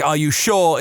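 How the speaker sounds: "Are you sure?" in a regional accent, sounding like a swear. Shown as a demonstration. Host showing how his region says it, regional accent. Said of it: "in my regional accent".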